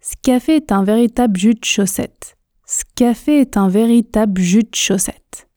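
"Ce café" as scafé, "de chaussette" as tchaussette; measured pace, dropping E's and the L of "véritable"; contractions, unhurried. Shown as a demonstration. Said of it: "Je prononce une fois lentement, mais en faisant toutes ces contractions". (« Ce café » contracté en scafé, sans se presser)

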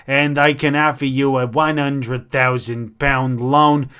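put-on New York accent. Adviser pressing on with loan business, New York accent. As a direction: switch into a New Yorker's accent. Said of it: "he's gone from, like, New York".

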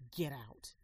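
loud angry order to leave; wife's loud yell ordering her husband out. Acted. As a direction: throw him out at full volume. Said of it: "she yelled".

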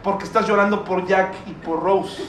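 soft, low, mocking consolation; mock comforting Jesus. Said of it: "Jesús me estuviera diciendo a mí". (una voz de consuelo burlona y suave)

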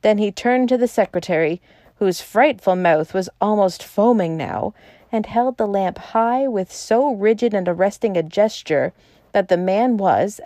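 ordinary delivery

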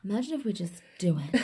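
giggling through the words; laughing. Real, not acted. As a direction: say it while laughing. Laughing repeat.

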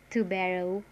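"Tubero" with English r and gliding final o; English-style pronunciation. Shown as a demonstration. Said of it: "pronounce it as this way".

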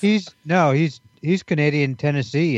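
a hint of a little girl defending her friend; nine-year-old girl. Buddy defending Byron in a light nine-year-old girl voice. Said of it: "he thinks he's a nine-year-old girl".

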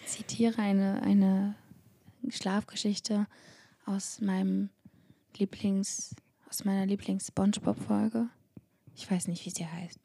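mostly whispered bedtime tale; sleep story narrator. Acted. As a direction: whisper it like lulling a child.

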